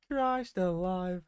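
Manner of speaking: exasperated drawl. Real, not acted. Drawn-out exasperation at the game.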